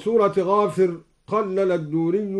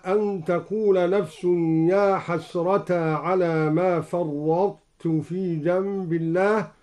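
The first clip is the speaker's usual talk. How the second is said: slow, chanted tajweed recitation; Quran recitation. Shown as a demonstration. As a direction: recite with measured melody. Recites verse before demo. (تلاوة مجودة)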